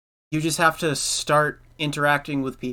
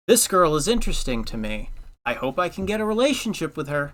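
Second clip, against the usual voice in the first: lightly put-on lovestruck voice, lifting higher; mock hopeful suitor; 4 semitones higher than usual. Imagined suitor hoping for a relationship with her, mock hopeful. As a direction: play a naively hopeful admirer, pitch rising.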